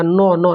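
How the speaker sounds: teacher showing the students where नौ is felt; demonstrating the sound नौ. Shown as a demonstration. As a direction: say नौ twice, open and nasal. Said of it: "नाक पर जोर पड़ेगा".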